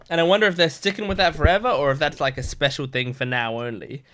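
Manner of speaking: talking through hiccups; small hiccups breaking the words. Real, not acted. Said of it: "I'm hiccuping a bit".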